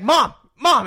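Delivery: put-on high, loud kid calling out. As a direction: call like a little boy at the door. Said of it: "he's like".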